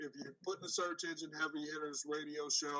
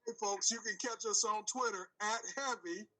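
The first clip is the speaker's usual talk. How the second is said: lightly put-on announcer voice for a show plug; telephone voice; 2 semitones higher, 10 dB louder than usual. Shown as a demonstration. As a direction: plug the handle in a practiced public voice. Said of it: "That was your telephone voice".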